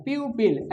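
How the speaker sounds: "प्यूपिल" said as pyu-pil; teacher modelling "प्यूपिल" in two parts, pyu-pil; pronunciation demo. Shown as a demonstration. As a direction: show how "प्यूपिल" is pronounced, pyu-pil. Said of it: "इसका उच्चारण थोड़ा सा अजीब है".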